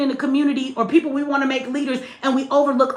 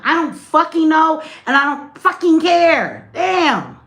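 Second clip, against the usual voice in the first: irritated; slower than usual. Real, not acted. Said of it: "you being dis fucking respectful".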